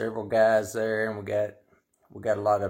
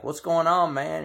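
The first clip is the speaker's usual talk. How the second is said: mock Bowhead; 9 semitones higher, 6 dB louder than usual. Bowhead asks the cop.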